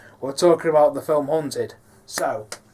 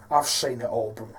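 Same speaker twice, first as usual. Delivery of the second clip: Carl Magnus; 3 semitones lower than usual. Shown as a demonstration. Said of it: "quite bruised, raspy".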